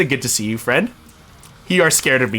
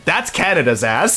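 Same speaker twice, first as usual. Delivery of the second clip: Captain America line. Pretend. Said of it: "I will do an, a Canadianized version of, of Captain America's line".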